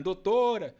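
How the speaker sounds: a mock shout toward the street; retold shout. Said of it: "Aí ela gritando".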